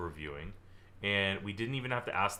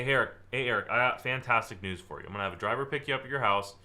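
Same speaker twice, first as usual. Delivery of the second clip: upbeat outcome pitch. Shown as a demonstration. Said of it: "I'd say".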